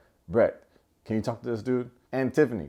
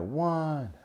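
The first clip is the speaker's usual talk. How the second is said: referee count; 6 semitones higher than usual. Retold or imitated. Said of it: "And he's like".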